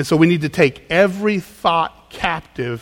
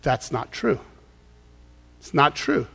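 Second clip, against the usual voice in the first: «That's not true» говорит тихо, ниже и мягче; calm, quiet self-correction; quiet rebuttal; 5 dB quieter than usual. Shown as a demonstration. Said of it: "you need to say".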